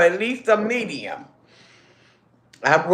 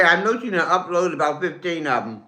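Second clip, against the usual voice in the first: mouth full; 4 dB quieter than usual. Real, not acted. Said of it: "try not to talk with my mouth full".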